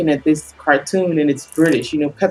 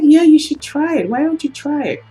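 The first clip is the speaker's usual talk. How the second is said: much higher, imitated kid's pleading; eager child; 11 semitones higher than usual. Daughter urging mother to try a British accent, high imitated child voice. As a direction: imitate a kid nudging, pitched way up.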